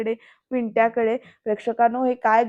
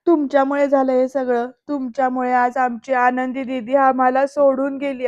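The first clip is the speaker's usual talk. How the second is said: mild mock shout. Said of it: "ती ओरडून म्हणते की".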